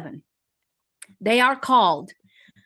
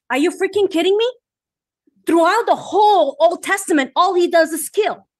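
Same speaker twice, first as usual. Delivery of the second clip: fired up; 4 semitones higher than usual. Real, not acted. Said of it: "I'm getting fired up".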